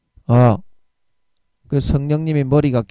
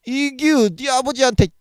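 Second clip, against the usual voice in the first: much higher, sharp dialect rebuke; Gyeongsang-dialect scolding; 11 semitones higher than usual. Retold or imitated. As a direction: bark like an angry big brother. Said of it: "경상도 사투리로 우리 형님과 같은 어투로". (아버지한테 대드는 동생을 높은 목소리로 꾸짖는 사투리)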